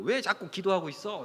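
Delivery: mock mildly exasperated tone. Acting out God's words about parting the Red Sea, acting slightly irritated. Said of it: "약간 짜증 섞인 말로".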